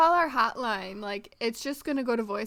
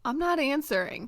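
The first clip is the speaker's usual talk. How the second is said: laughing; 3 semitones higher than usual. Real, not acted. Joking about the hotline.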